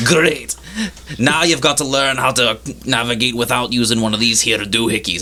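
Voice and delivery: lightly voiced old salt; a hint of a gruff-talking captain teaching; instructing sea captain.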